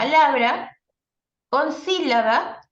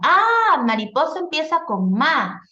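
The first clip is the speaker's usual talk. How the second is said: sudden realization; 5 semitones higher than usual. Retold or imitated. Child discovering syllable.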